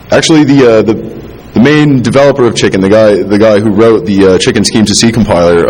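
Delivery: stumbling, repeating words; stutter. Real, not acted. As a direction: trip over the words. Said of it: "the more I stutter".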